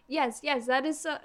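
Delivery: put-on mistaken French accent for an Italian character; lightly acted French-accented agreement. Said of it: "I've been doing a French accent with Riquetti".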